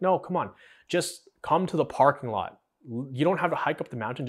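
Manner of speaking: lightly voiced mom pushing her kid along; imitating mom. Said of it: "She's like".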